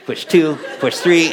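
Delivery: laughing at his own clumsy hair job. Real, not acted. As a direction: chuckle as you count them off. Laughing while retelling ponytail mishap.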